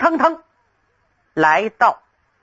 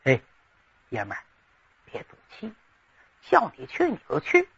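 hushed coaxing; 3 semitones lower, 9 dB quieter, much faster than usual. Acted. Cheng Yaojin, face to face, urges the young man in a hushed voice. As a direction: drop to a soft, breathy aside. Old general coaxes him privately.

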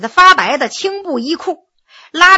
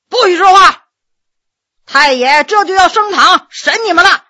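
loud, higher-pitched guard's shout; sharp bellowed command; 5 semitones higher, 5 dB louder than usual. A narrator's reading. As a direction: cut them off with a bellow. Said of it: "断喝了这一声".

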